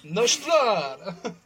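mock Eastern European toast; Eastern European accent. Host ending his Jodka toast, hammed-up Eastern European accent. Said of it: "in an Eastern European accent".

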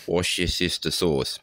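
"wash your sister sauce" said slowly, each word placed, stress on wash; carefully spelling out "wash your sister sauce"; slowly sounding out "wash your sister sauce" to get it right; slow careful try. Pretend. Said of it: "Three hardest things to say".

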